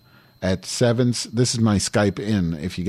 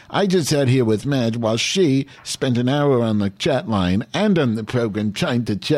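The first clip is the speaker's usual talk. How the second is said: Mrs Banningheimer voice; 5 semitones higher than usual. Acted. Caller leaving a huffy voicemail for a friend, lightly put-on old lady voice. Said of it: "I put Missus Banningheimer back".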